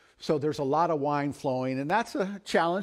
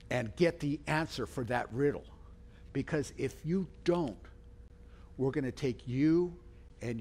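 retold threat, held back and deliberate; understated threat; 4 dB quieter than usual. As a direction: issue a quiet, measured warning. Companions threatening the wife.

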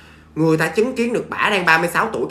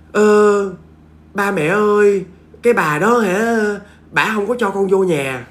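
slightly high, louder pleading; pleading son; 4 semitones higher, 4 dB louder, slower than usual. Retold or imitated. Dead son in a dream pleading with parents. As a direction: beg his parents for help. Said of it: "Kêu là".

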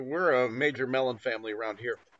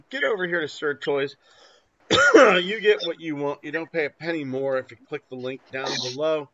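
ad read. Acted. Sponsor plug read.

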